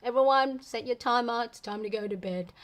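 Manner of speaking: loud group call. Retold or imitated. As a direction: call everyone to bed like a leader. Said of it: "group going".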